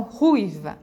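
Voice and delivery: RUIVA with a long, strong U and a weak I; stress on the U. Shown as a demonstration. Teacher showing which vowel is stronger, stressed U in "ruiva". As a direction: lean on the U of "ruiva". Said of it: "O U sai muito mais forte".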